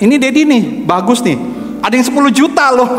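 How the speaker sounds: high-pitched eager showing-off; imitated excited child. Son shows Dad scooters online, imitated eagerness. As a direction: pitch it up like a kid pointing out a find.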